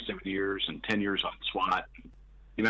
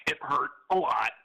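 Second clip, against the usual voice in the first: voice breaking; 6 semitones higher, 4 dB louder than usual. Retold or imitated. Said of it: "my voice is starting to break".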